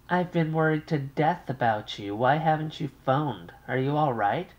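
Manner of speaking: an anxious mother on the line. Acted.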